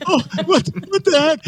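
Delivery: high, flustered outburst; startled rider. Retold or imitated. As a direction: blurt it out high and rattled. Triathletes reacting.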